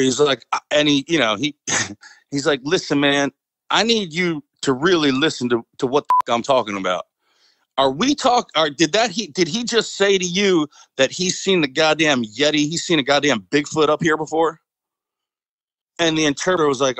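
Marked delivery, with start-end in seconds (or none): 2.6-7.1 imitating a firm, insistent sergeant; real firm. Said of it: "he got real firm with the interpreter". 7.8-14.6 imitated sergeant demanding a straight answer; firm, incredulous questioning in a retold voice; real firm. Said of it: "he got real firm with the interpreter".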